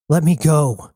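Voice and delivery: bound daughter shouting at her mother; shouted. Acted. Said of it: "shouted Jazz".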